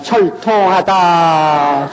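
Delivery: 철통하다 drawn out very slowly; mock ghost wail. Preacher mimics a Jirisan ghost, slow wail. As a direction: draw out 철통하다 like a mourning ghost. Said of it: "지리산 쪽에 가면".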